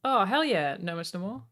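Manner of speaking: normal talking voice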